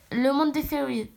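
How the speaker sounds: "fairies" slipping into an English accent. Real, not acted. Reader stumbles on the world of "fairies", English accent slipping in. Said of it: "pourquoi je parle en accent anglais?".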